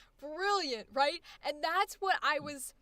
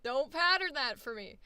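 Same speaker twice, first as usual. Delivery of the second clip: high, loud mock no no no; mock protest; 4 semitones higher, 5 dB louder than usual. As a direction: playfully stop the actor. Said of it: "I was like".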